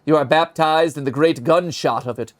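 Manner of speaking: slow, solemn sermon-like reading; dramatic reading. Acted. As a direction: intone it like a dark eulogy. Reads eulogy page dramatically.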